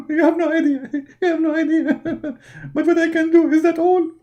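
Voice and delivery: 1 laughing prophet. Acted. Muhammad laughing disbelief.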